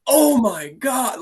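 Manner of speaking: high, drawn-out mock wail; imitated kid's dismay. Coach imitating a kid facing sitting still, mock despair.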